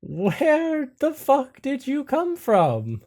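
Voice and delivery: loud, high, hollered greeting; drawn-out, startled shout at sudden visitors; Greg. Acted. Greg shouts at Iris and Arden appearing by the RV, startled holler. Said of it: "And Greg says".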